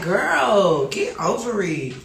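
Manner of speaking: loud dismissive snap at Paris; mock yell at daughter. Mother telling daughter Paris to toughen up, loud and dismissive. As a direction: brush her off loudly. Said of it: "I be like".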